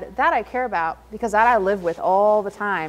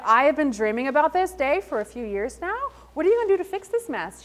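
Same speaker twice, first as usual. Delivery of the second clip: retold panic; 3 semitones higher than usual. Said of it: "And I was like".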